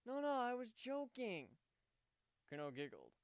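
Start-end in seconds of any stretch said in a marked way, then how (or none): 0.1-1.6 much higher and louder, urgent backpedal; earnest hurried protest. A narrator's reading. Warden pulling Kuno back, urgent and loud. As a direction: stop her fast, laughing it off. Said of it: "shaking his head in earnest".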